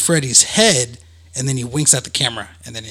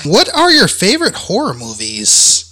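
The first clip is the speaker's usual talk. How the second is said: host hype; 8 semitones higher, 4 dB louder than usual. Real, not acted. Host switching segment.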